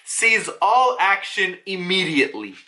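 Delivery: measured, spaced-out command; microphone announcement. Retold or imitated. Silhouetted figure orders the pacifistas to stop, measured announcement. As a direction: announce it word by word, with authority. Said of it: "he's speaking into, like, a microphone".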